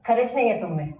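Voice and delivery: fed-up, heated refusal; angry quarrel. Acted. Woman refusing her partner's cover-up drama, heated. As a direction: push back at a partner, fed up.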